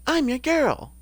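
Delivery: high-pitched character catchphrase; Anita. Acted. Streamer trying to recall a character's voice, high put-on voice. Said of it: "what was Anita's voice?".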